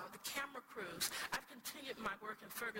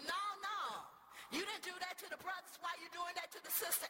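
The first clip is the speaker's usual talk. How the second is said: yelled out again; 7 semitones higher, faster than usual. Retold or imitated. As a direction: call him out, with more heat. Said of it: "I'm with my people".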